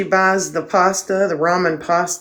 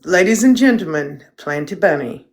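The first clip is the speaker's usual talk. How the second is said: mock announcer. One more time for the dog.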